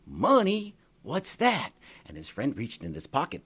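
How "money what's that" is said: high, loud baffled question; puzzled surprise, pitched up; amazed. Acted. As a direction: George astonished at the word money. George amazed by money.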